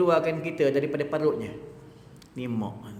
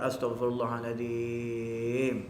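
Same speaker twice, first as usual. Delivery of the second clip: calm prayer; 3 semitones lower, slower than usual. Acted. Mother prays instead of cursing.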